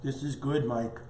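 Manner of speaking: talking through a bite; mouth full. Real, not acted. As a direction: speak while chewing food. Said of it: "I'm talking with my mouth full".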